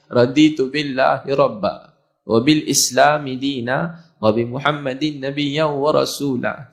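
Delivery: slow, drawn-out Arabic recitation; measured recitation. Retold or imitated. Son leading his father in prayer at the Kaabah, slow recitation. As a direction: recite phrase by phrase for someone to repeat, slowly.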